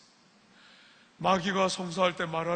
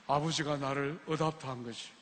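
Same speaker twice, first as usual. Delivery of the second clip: softer and lower, firm and certain; Matthew-style retort; 6 semitones lower, 8 dB quieter than usual. Shown as a demonstration. Preacher showing the congregation how Matthew answered, softer and lower. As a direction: say it like the boy, steady and sure. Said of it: "매튜처럼 눈을 부라리면서 이야기해야".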